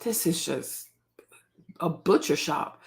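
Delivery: slow hushed whisper. Real, not acted. Whispering to viewers about the hospital. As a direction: breathe it out, appalled. Horrified aside about birth footage.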